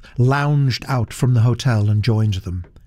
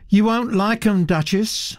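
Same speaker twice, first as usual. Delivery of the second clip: warning; 9 semitones higher than usual. Acted. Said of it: "she said, warningly".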